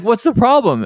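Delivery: high, laughing through the question; mock-baffled question pitched high through a laugh; laughing quote. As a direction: ask it while cracking up.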